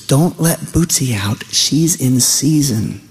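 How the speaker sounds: drawn-out imitation of a Southern mother; Southern lady. Mom warning son from bedroom door, drawn-out Southern lady. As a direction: stretch the last words like a Southern lady. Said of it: "That's the way ladies I grew up with said it".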